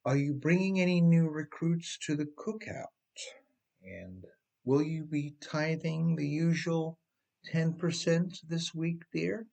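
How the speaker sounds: lightly voiced pastor, rising gently to dear; gentle reminder. Pastor asks his loyal church member, a sweet gentle reminder. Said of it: "as a gentle reminder".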